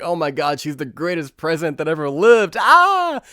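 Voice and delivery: fawning crowd building to a high squeal; gush, then erupt in a loud high scream; hammed-up adoring fans; mock adulation. Mocking crowd fawning over the president.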